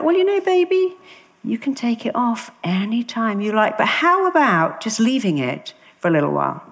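high, sweet coaxing voice; coaxing mum. Retold or imitated. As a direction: coax her gently like a mother.

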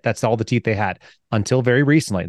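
ordinary talk

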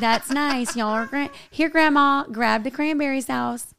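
lightly put-on country twang; country accent. Heiress at family Thanksgiving dinner talking to Grandma, light country accent. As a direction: play it as a homely country accent. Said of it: "acting like Paris had a country accent".

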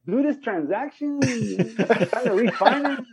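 high cholo drawl with stretched endings; slow, high, exaggerated cholo voice; cousin's cholo accent. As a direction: bank business in a mock cholo accent. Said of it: "bring up the next customer in that accent".

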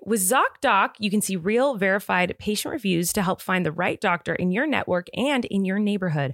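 scripted, upbeat sponsor read; podcast ad read. Acted. Host reading listeners a sponsor message, polished ad read.

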